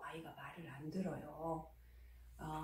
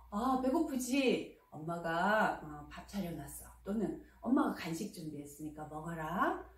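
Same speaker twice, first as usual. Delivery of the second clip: gentle welcome; 3 semitones lower than usual. Shown as a demonstration. Mother gently welcoming her son home to a meal. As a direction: greet him kindly with food ready. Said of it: "부드럽게 말씀하시고".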